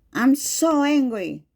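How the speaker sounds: demonstrated mild anger; anger expression. Shown as a demonstration. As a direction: push it out stronger, mildly angry. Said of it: "talk at higher volume and stronger".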